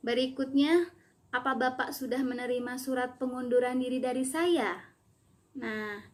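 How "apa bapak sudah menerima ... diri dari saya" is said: confirmation question lifting near the end on "dari saya"; rising question intonation. Shown as a demonstration. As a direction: raise the pitch towards "dari saya". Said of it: "intonasinya meningkat".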